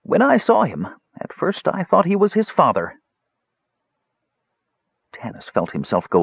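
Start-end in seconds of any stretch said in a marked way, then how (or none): 0.0-3.0 put-on high, strained old wizard; pain-racked mage. Dying mage recalls Tanis's father.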